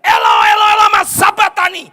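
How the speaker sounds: loud, anguished shout; crying out to heaven. Acted. Jesus crying out to heaven, anguished shout. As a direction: cry it out to the sky. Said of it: "Dia teriak ke surga".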